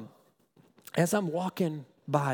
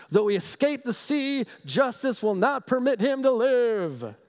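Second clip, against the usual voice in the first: raised, fervent Bible reading; scripture reading; 8 semitones higher, 4 dB louder than usual. Acted. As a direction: read the verse like good news to the flock. Reads scripture with fervour.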